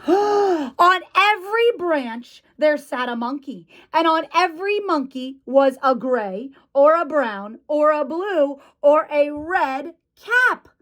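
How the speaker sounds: put-on animated reading for small children; picture-book narration. A narrator's reading. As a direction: reveal it with wonder, stressing EVERY.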